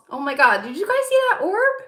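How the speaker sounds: usual speaking voice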